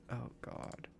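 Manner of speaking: whispered exasperation; whispered despair at the puzzle. Real, not acted. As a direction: breathe it out as a whisper. Repeats it in a whisper.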